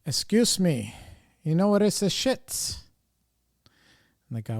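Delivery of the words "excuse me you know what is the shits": higher, imitating mom's broken English; mom's accented question. Mom asking the store clerk, higher mock voice. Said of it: "she would be like".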